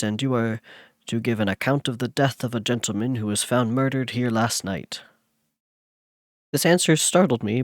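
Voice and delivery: steady, even read-aloud narration with the quoted lines voiced a little; story narration. Streamer reading Frankenstein to chat, story narration. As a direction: read it like a classic novel to listeners.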